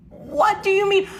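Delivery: very high, stretched-out whine; high-pitched, drawn-out cry of protest; exasperated disbelief. Retold or imitated. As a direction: wail it slowly, utterly incredulous. Outraged response to parents' refusal.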